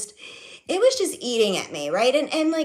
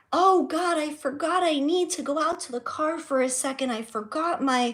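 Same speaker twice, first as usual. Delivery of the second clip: mock grand announcement; 5 semitones higher than usual. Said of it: "She's making these, um, grand announcements".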